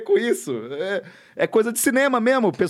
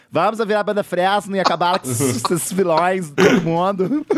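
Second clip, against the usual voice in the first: put-on southern Brazilian accent. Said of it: "dublado por um sulista".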